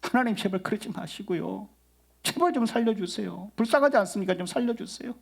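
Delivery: high, hushed imploring prayer; earnest pleading. Retold or imitated. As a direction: beg for mercy in Moses's place. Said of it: "모세가 막 간절히 또 기도하는".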